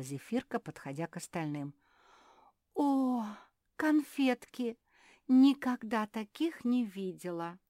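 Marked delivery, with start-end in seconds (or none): 2.7-7.6 high, slow delighted exclamation. Acted. Zefirka spotting the chocolates, delighted. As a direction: gush over the sweets.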